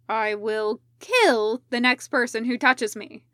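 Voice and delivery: a groggy man growling a warning at whoever touched him; growled threat. Acted. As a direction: threaten anyone nearby through your teeth. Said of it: "he growled".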